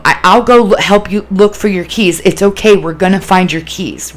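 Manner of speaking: soothing, helpful coaxing; reassuring. Shown as a demonstration. Helper to someone frantic over lost keys, reassuring. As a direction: promise help in a steady, comforting way. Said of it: "Reassure, you know, reassurance".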